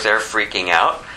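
ordinary delivery

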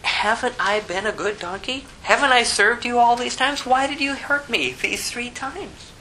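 a hint of a wounded animal asking why; donkey's voice. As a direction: plead as the hurt donkey. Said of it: "the donkey says".

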